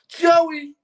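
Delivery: high, loud cry of the name; shouting out Joey with excitement; excited call-out. Real, not acted. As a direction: hail him like a friend across the room. Calling out to Joey Budden.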